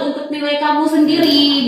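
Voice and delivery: plaintive teacher laying on guilt; pleading guilt-trip. Acted. Teacher reminding a student about their grades, pleading guilt-trip. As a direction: coax the student with mild, mock reproach. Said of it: "nada suara memelas".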